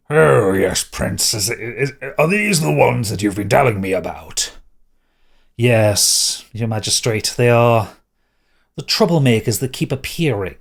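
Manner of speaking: lightly voiced pompous official; self-important magistrate.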